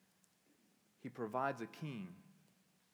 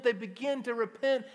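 repeated louder and higher; loud preaching; 10 semitones higher, 10 dB louder than usual. Acted. Pastor repeating the line to the church, loud and fervent. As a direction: belt it out to the room.

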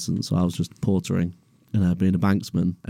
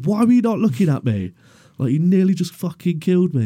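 much higher, louder furious retort; outraged yell; 11 semitones higher, 5 dB louder than usual. Retold or imitated. Porter screaming at the driver who nearly killed him. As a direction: yell it in disbelief. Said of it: "I was like".

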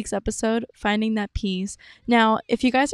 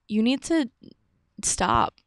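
very serious. Retold or imitated. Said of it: "she was very serious".

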